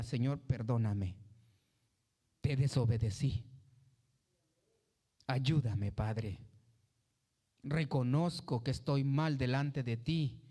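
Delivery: oración suave, más grave y humilde. Retold or imitated. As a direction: pide perdón con sencillez. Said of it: "sea humilde y diga". (creyente arrepentido que ora con humildad, grave y suave)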